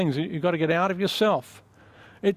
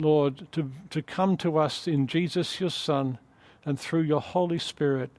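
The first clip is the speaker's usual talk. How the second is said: prayer. Acted. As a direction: pray gently, drawing the room in. Pastor leads closing prayer.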